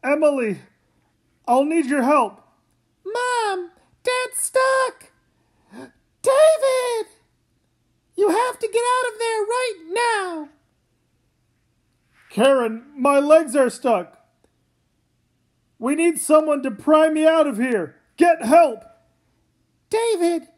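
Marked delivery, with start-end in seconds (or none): 3.0-10.5 high frantic tearful cries; desperate, near sobbing; panicked crying. Acted. Family in danger. 15.8-18.8 louder urgent orders; urgent shout. Acted. Trapped father urges.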